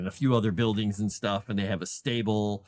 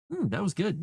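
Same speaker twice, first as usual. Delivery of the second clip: voicing the cat; 9 semitones higher than usual. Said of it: "and he was like".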